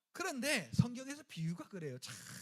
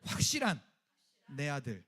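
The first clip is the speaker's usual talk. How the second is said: preacher leading the congregation in a declaration; call and repeat; 9 semitones lower, 5 dB louder than usual. Shown as a demonstration. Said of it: "같이 따라합시다".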